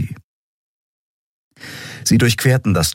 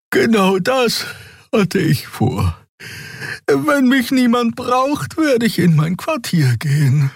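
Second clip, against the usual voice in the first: much higher, slow, weary voice; tired creature Xea. Acted. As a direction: drag each word out, sleepy. Xea, müde Figurenstimme. (sehr hohe, langsame, müde Stimme)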